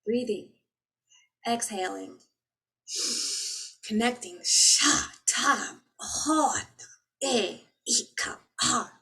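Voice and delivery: high, loud chanted syllables, rising and falling; light language. Real, not acted. Spiritual speaker chanting light language to her viewers. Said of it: "I gave you guys a little bit of light language".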